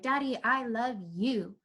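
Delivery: put-on slow, simple little-kid affection; sweet declaration. Daughter telling her dad, plain sweet affection. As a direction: say it slowly and tenderly, like a child. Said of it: "she was telling her dad".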